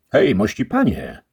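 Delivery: głośniejsze, wyższe zawołanie giermka; rubaszny giermek woła pana; Sancho wołający. A narrator's reading. Sancho's voice in the story. (lekko zagrany giermek)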